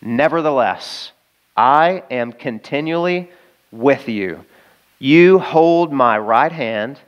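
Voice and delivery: slow, deliberate reading of a psalm; slow scripture reading. Acted. Preacher reads the psalm slowly to the congregation. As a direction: linger on each phrase of the verse.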